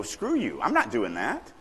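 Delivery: mock defiant refusal, pitch leaping high at the start; anger or frustration. Shown as a demonstration. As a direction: act out an irritated pushback. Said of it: "that shows anger or frustration".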